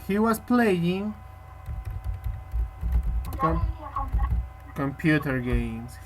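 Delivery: drawn out, words spaced apart; slow dictation. Shown as a demonstration. Teacher dictating the answer to her student, slowly. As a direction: dictate slowly so it can be written.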